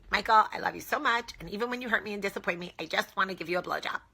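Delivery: dedicated wife voice. Shown as a demonstration. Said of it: "super dedicated wife voice. It goes like this".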